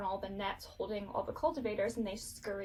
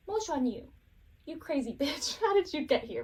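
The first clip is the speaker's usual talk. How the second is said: crabby; 5 semitones higher, 4 dB louder than usual. Retold or imitated. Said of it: "he's kind of crabby".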